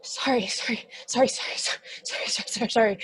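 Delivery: a nervous demon murmuring apologies; rapid whispered apologies. Acted. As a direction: whisper sorry over and over, flustered.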